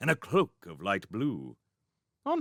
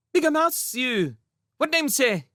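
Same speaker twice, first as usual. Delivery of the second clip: tiny imperious queen; 5 dB louder than usual. Acted. Tiny queen demands name.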